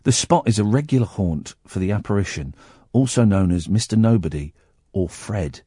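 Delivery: low, softening read-aloud; newspaper story reading. Real, not acted. Host finishing the haunting article for co-host, low-voiced.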